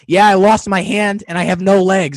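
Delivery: loud, high goofy beaver puppet; cartoon beaver, playful and loud; goofy muffled sock puppet. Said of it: "with the puppet on my hand, I went".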